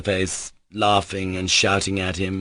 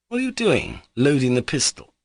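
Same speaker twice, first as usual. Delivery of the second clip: alarmed; 7 semitones higher than usual. Acted. Pyotr alarmed at pistol.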